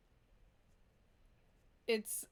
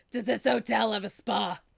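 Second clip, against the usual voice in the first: put-on loud, belting day-drunk woman voice. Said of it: "do that woman's voice".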